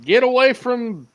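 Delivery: loud, high, slow yell; protective yell. Acted. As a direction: shout it out to defend her. Character yelling at attacker.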